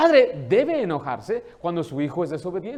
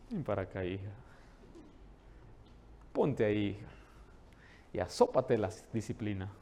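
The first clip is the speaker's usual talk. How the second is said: soft, much lower and quieter, with a smile; sweetly smiling; 10 semitones lower, 11 dB quieter than usual. Shown as a demonstration. Father calmly calling daughter for discipline, sweet and soft. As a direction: speak gently with a smile before the punishment. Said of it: "Con una sonrisa".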